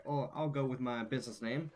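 put-on country accent. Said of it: "I'm losing my country accent as I speak".

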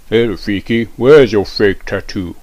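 loud, slow mocking jeer; taunting kid. Cool kid teasing Rafiki's plain skin, slow loud jeer. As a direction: drag out the insult.

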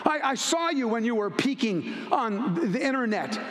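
a demon sneering and accusing, slowing on the last lines; taunting demon. Acted. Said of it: "I know who you are".

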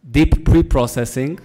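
laughing. Real, not acted. Jokey innuendo video titles.

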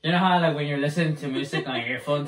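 too loud, unaware of it; screaming over headphones. Real, not acted. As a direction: talk up over music in your ears. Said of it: "Why are you screaming?".

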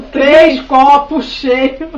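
loud, slow call from afar; shouted from another room. Retold or imitated. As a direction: stretch it out like calling from the bedroom. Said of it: "Minha mãe gritou lá do quarto".

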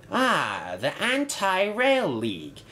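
high-pitched, intrigued discovery; curious. A narrator's reading. Inspector reads a banner on Bulgy, curious. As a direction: read it out with lifted, curious interest. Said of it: "he asked curiously".

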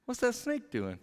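lightly voiced clueless husband; a hint of a dim, aloof husband; puzzled husband wondering at a talking snake; aloof Adam. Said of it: "standing there next to her going".

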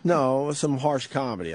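slow, deliberate. Real, not acted. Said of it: "I call it".

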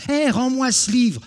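high, loud indignant cry; outraged protest. Acted. Jean to Beau Loriot who snatched his book, high outraged cry. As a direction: yelp at the thief.

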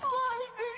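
high giggle. Real, not acted. Laughing at punchline.

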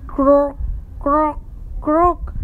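short, separate mild croaks; teacher's light frog imitation. Shown as a demonstration. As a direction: croak like a frog, one at a time. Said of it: "Frogs croaks".

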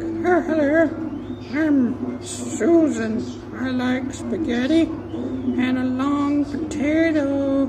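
very high, slow, loud puppet voice; silly high voice. Pretend. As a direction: drag it out in a squeaky puppet voice. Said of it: "And be like".

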